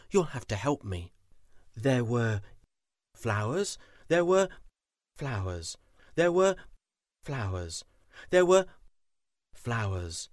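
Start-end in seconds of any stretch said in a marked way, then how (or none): 1.8-10.3 sing-song "there were... flowers"; call and response. Shown as a demonstration. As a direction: call and answer pattern. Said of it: "I'm going to chime a little bell".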